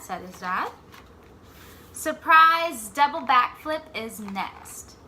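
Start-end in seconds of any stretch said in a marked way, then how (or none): 1.9-5.0 slow, louder announcement; slow big reveal. Acted. Jabari announcing his next trick to his dad, slow and louder. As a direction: savour the surprise. Story's punchline line.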